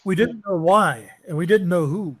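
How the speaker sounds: a hint of the skinny French guy; French contact. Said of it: "he's like".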